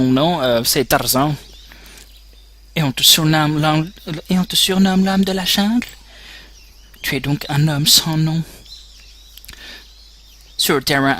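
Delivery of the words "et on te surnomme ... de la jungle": medic voice. Acted. Medic voice continues.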